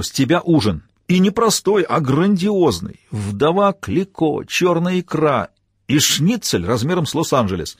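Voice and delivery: out of breath, drawn-out words; puffing while dragging a suitcase; panting. Acted. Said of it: "задыхаясь".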